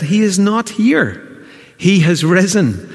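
lifted, unhurried proclamation; slow triumphant proclamation. Acted. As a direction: announce it with awe. Preacher proclaims the resurrection.

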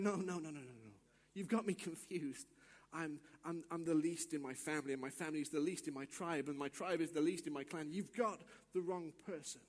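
low, hurried, mildly flustered excuses; lightly voiced reluctant hero backing away; self-doubting protest. Gideon protests he is least.

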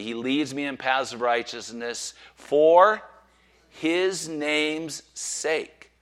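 very slow, stretched ending; drawn-out unison recital. Acted. Preacher leading the congregation in unison, slow and drawn out. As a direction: lead the room through it slowly. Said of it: "Say it with me".

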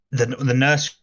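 choppy, glitchy call audio; breaking up. Real, not acted. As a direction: voice cutting in and out over a bad line. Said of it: "You're breaking up".

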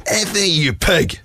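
put-on high, outraged shriek of a girl; retelling the girl's shocked screech at a bonfire; mock screech. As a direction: shriek it like she's caught you out. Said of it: "I hear this screech".

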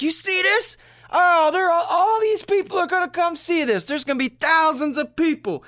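put-on high, loud, giddy old farmer voice; bursting with excitement over the meteor; excited farmer impression. Old farmer thrilled at the meteor, shouting high and giddy.

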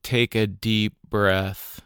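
calm, unhurried meditation guide with long pauses; guided meditation. Acted. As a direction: guide listeners gently through their breathing, leaving space between phrases.

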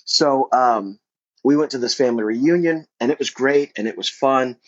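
talking with gum in mouth; words around a wad of gum; chewing gum. Real, not acted. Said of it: "if you hear some A S M R stuff".

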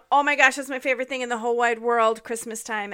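real fast excited gush; gushing excitement. Real, not acted. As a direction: rush it out like your favourite thing ever. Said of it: "could not be more excited".

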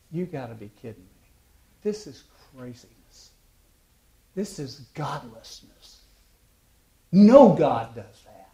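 scoff, then blurt the last line loud; incredulous pagan. Retold or imitated. Pagan man scoffing at the gospel, rising to a shout. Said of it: "The guy looks at him and says".

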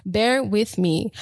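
slow, drawn-out bear with me, ending on a rise. Shown as a demonstration. Podcaster asking viewers for patience, slow and drawn out. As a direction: ease off and stretch out Bear with me. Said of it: "If I'm talking really fast".

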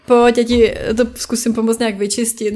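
acted sympathetic concern; empathetic friend. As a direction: sympathize and eagerly offer help. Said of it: "Projeví vám tu empatii". (soucitně, jako chápavá kamarádka)

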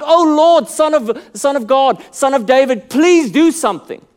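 crying out. Acted. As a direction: cry out to the Lord, pleading. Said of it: "you cry out".

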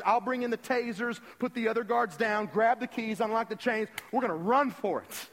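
hammed-up action-plan speech, punched out; rallying the group. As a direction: take charge and hand out orders. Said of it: "saying to the rest of the group".

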